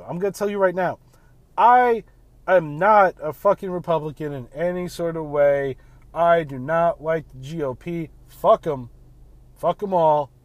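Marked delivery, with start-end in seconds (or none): 1.6-10.3 loud angry rant; yelling. Real, not acted. Ranting to his podcast listeners about the GOP, yelling. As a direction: yell it right at them, fed up. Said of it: "I'm gonna yell at you".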